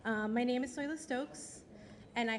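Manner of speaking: hoarse voice from a cold; husky, sick voice with a cold. Real, not acted. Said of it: "Forgive my voice, I do have a little cold".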